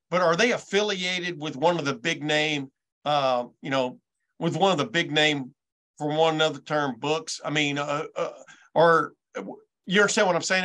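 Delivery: halting, groping for the words; unsure how to put it, hesitant and broken up; stammering. Real, not acted. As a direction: stumble through the question with ums and restarts. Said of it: "I'm stammering 'cause I'm".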